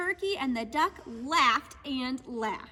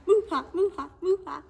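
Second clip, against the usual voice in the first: laughing cows; 7 dB louder than usual. Acted. Cows laughing in picture book.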